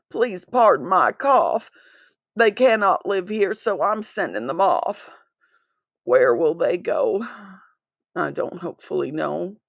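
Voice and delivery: lightly voiced Lorax, a touch of sorrow; sad Lorax. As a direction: gently plead as the worried Lorax. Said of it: "said the Lorax".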